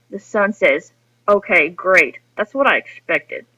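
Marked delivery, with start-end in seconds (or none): 1.3-3.5 dry sarcastic reply. Shown as a demonstration. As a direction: let the disappointment leak through the fake approval. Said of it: "The son's tone is sarcastic".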